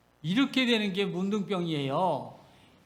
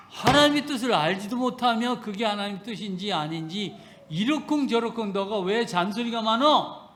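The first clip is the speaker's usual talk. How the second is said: mild rebuke. Retold or imitated. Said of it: "이렇게 말씀하시는 거예요".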